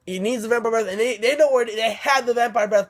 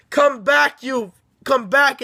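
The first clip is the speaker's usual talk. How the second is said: higher, drawn-out mock call; retold calling after; 3 semitones higher, slower than usual. Vampire to the fleeing children, mock menacing call. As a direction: imitate someone calling after runaways.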